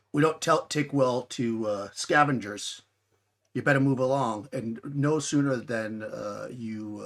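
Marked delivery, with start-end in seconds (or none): 0.1-4.5 louder, attempted Korean-accented warning; lightly voiced Korean accent, slow and halting; heavy Korean accent. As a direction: warn them off with a touch of Korean accent. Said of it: "he's got a very heavy, uh, accent, Korean accent".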